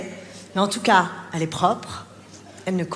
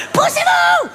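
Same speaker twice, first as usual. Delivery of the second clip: high, loud yell to clear the way; frantic shout; 7 dB louder, much slower than usual. Acted. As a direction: shove through the crowd at the top of your voice. Late mother barging through crowd.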